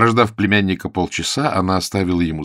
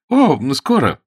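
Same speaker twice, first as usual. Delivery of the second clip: flustered reply; 6 semitones higher, 8 dB louder than usual. Acted. Sue flustered by the aunt.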